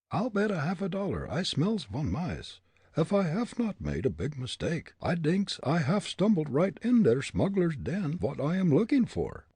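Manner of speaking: high, keen stage-German voice; suspicious musing in a German accent. A narrator's reading. Fritz's mental comment in dialect.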